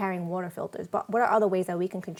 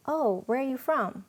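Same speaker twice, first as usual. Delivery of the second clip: put-on little girl's accent; 5 semitones higher than usual. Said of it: "the cutest little accent".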